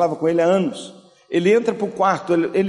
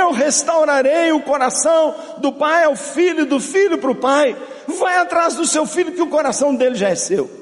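a fervent preacher's cry; pregação inflamada; 7 semitones higher than usual. Acted. Preaching at full force. (pregação fervorosa e alta)

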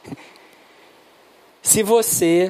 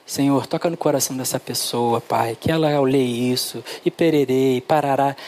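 low, murmured mock-up of a prayer; lightly acted intercession in a lowered pitch; imitated prayer; 6 semitones lower than usual. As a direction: recite a routine prayer, kept low. Re-enacts praying over evangelistic tracts.

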